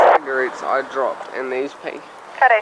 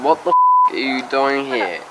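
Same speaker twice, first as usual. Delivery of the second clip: mock yell; 3 semitones lower than usual. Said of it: "came out of a house and said".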